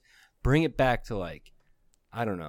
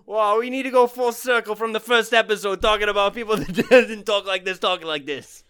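high, loud bro voice, fading; lightly voiced dude bro; 9 semitones higher, 7 dB louder than usual. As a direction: keep the bro voice going. Stays in bro voice.

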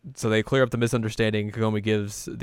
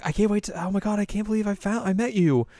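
high-pitched, stumbling fangirl excitement; hammed-up squealing fan; starstruck gushing; 10 semitones higher, 3 dB louder than usual. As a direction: trip over the words, building louder. Acts Kagome gushing at Nobunaga.

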